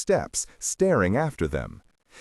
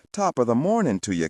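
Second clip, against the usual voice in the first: Irish brogue; 4 semitones higher, faster than usual. Acted. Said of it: "in his best Irish brogue".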